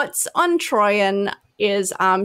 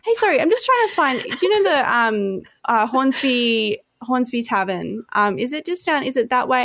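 sincere lost guy; 3 semitones higher than usual. Retold or imitated.

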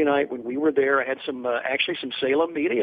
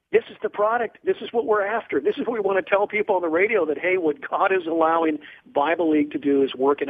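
retold excitement, higher pitched; excitedly telling a colleague the work pays off; 4 semitones higher than usual. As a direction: eagerly make the point to a colleague. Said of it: "And Tim, excitedly".

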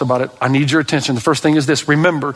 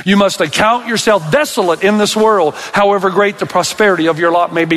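recited again; 4 semitones higher than usual. Shown as a demonstration. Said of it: "Let's say it again".

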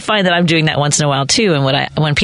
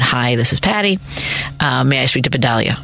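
polite phone greeting; 5 semitones lower than usual. Shown as a demonstration. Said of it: "either one of those will work".

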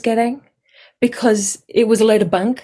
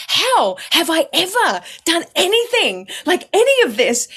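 higher, laughing protest; mock protest; 10 semitones higher than usual. Protesting to mum, high and laughing. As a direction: plead innocence, hammed up. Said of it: "You know, like".

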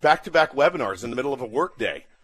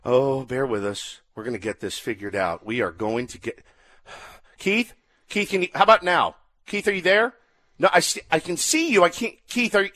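mock panic. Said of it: "just the sheer panic of the guy".

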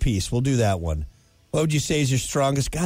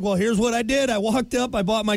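Australian slipping to redneck; 7 semitones higher than usual. Retold or imitated. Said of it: "I went from Australian to redneck".

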